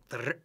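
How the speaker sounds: thr- as a rolled Spanish-style R; a brief demonstrated trill on thr-. Shown as a demonstration. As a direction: roll the R in thr- on the tongue tip. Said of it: "we don't trill the R either".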